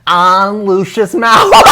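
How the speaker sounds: put-on slow, high, shouted British accent; hammed-up shouted British accent. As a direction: shout it like a hammy posh villain, British accent. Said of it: "That's it".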